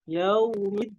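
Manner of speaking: "Yaumiddin" chanted slowly, final n left humming; flowing final nun. Shown as a demonstration. Teacher demonstrates the nun, slow chanted "Yaumiddin". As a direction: press the d and let the n flow on. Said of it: "diberikan sifat tawasutnya. Dialirkan".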